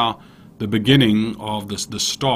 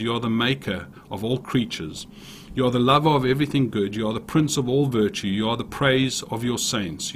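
rhythmic litany of praise to God; prayer recital. Acted. Preacher ending with a long prayer of confession, prayer recital. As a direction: recite it phrase by phrase, addressing God.

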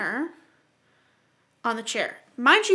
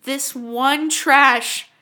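mock dramatic; 4 semitones higher, 8 dB louder, much slower than usual. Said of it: "mock dramatic lament".

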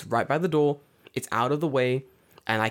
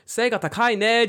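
high, loud blurted compliment; loud kid; 11 semitones higher, 6 dB louder than usual. Retold or imitated. Bravest kid calls out to the tall foreigner, high and loud. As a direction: shout it out of nowhere, bold. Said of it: "like, loud as".

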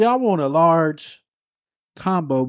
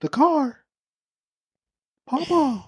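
calling out. Acted. Calling grandfather who can't hear.

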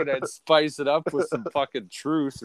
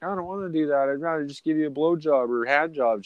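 put-on lightly raised girly voice; imitated reluctant girlfriend; 2 semitones higher than usual. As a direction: mimic a girlfriend begging off. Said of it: "she always is like".

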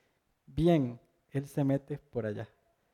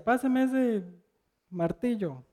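quoted worker; 5 semitones higher, slower than usual. Retold or imitated. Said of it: "Él decía".

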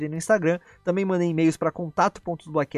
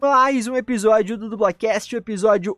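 podcast host voice; 5 semitones higher than usual. Acted. Podcast outro announcement.

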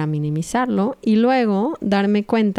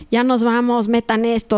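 rushed hurry; 4 semitones higher than usual. Retold or imitated. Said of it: "estás en la prisa corriendo".

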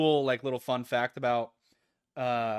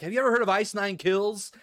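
higher, smug question; Patrick Bateman voice; 7 semitones higher, 4 dB louder than usual. Retold or imitated. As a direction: quiz him like a smug snob. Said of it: "it's like".

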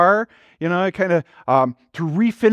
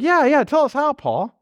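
eager congregation; 6 semitones higher than usual. Retold or imitated. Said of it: "And we're like".

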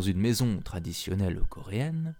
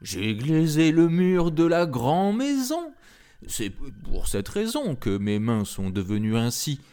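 growling tiger voice; 5 semitones higher than usual. A narrator's reading. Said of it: "répondit le tigre".

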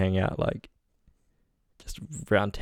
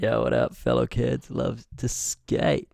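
put-on extreme hyped kids ad; slower than usual.

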